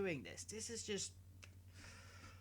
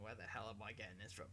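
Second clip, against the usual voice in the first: whispered aside; 11 semitones lower, 12 dB quieter, faster than usual. Pretend. Voicing viewers' puzzled thought.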